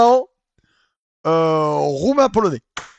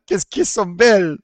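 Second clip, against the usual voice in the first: mock Italian accent; 3 semitones higher, 5 dB louder than usual. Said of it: "comment il a dit là?".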